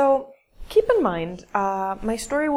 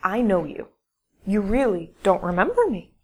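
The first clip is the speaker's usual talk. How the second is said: firm, louder retold insistence; very confident; 5 dB louder than usual. Young woman insisting she knows the storyteller, very confidently. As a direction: say it with emphatic certainty. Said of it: "very confidently, she goes".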